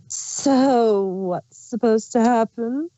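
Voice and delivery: slow, sly changeling queen asking innocently; Chrysalis voice. Acted. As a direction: feign puzzlement as the changeling queen. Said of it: "oh, that's Chrysalis's voice".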